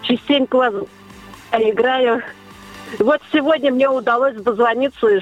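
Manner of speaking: normal talking voice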